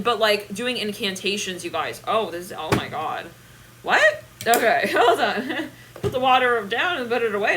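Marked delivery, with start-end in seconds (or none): 3.8-4.2 sudden high shocked what. Real, not acted. Reader hearing a shocking message, shocked. 4.4-7.6 laughing. Real, not acted. Reader reacting to the message, laughing. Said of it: "laughing, slow".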